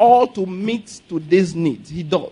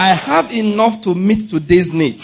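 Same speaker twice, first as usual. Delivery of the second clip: preaching declaration. Shown as a demonstration. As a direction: proclaim it for the church to repeat. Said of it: "Say it".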